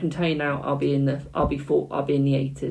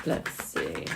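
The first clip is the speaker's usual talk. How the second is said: much lower, soft musing; low murmur; 11 semitones lower, 9 dB quieter than usual. Real, not acted. Reader to herself over the cards, low and hushed. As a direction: drop deep and hush it.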